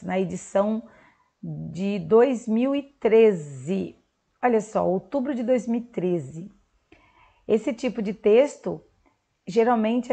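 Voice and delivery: ordinary talk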